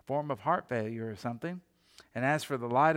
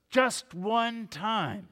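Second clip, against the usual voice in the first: put-on pleading kid; 7 semitones higher, much slower than usual. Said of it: "He goes".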